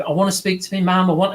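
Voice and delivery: a touch of weepy urgency; tearful young man. Retold or imitated. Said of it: "he started crying and getting tearful".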